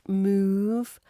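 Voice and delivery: "move" drawn out on a long oo; long oo sound. Shown as a demonstration. Teacher modelling the vowel, "move" with a long oo. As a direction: stretch the oo in "move". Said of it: "Pronounce move with that long oo sound".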